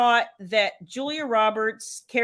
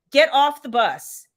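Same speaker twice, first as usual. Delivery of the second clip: mild mock yell, slow and louder; retold scream; 2 semitones higher, 5 dB louder than usual. Mom yelling at a movie girl, mild mock scream. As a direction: call it out slowly, firmly. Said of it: "I'm screaming at that girl".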